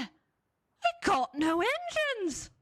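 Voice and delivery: high, slow crying wail; hammed-up baby sob; mock baby wail. Narrator voicing the disappointed babies, wailing high.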